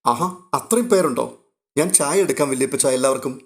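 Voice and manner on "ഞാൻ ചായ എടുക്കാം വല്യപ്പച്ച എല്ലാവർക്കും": ordinary delivery, nothing marked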